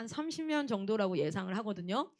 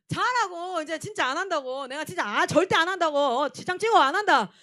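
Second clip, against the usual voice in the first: higher, louder exasperated insisting; insistent protest; 5 semitones higher, 9 dB louder than usual. Retold or imitated. Leader loudly insisting to campers there's no prank tonight. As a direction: swear up and down you won't do it.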